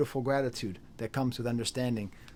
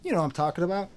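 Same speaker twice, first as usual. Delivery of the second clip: shouted hype call; 7 semitones higher than usual. Retold or imitated. Calling out hype, imitating song.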